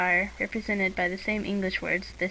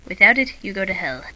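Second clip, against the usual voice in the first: mock hellfire warning; 8 dB louder than usual. Mock sermon joke on book.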